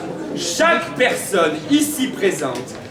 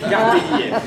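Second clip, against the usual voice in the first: town crier. Acted. Announcing horoscope messages.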